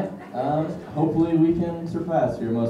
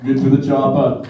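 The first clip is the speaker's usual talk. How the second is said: Arnold impression; 5 dB louder than usual. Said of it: "do some impressions".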